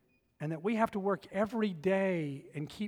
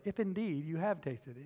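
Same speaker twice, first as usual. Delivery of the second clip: sarcastic; 5 dB quieter than usual. Shown as a demonstration. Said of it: "there's a little bit of sarcasm there".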